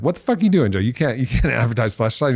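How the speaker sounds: mock outrage from the management team; a touch of panicked manager; shocked management.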